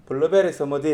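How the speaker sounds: "블루베리 스무디" with a Gyeongsang dialect lilt; Busan-style "블루베리 스무디"; Gyeongsang accent. Shown as a demonstration. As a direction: order a blueberry smoothie in a Gyeongsang accent. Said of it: "이렇게 지금 얘기할 거 아니에요".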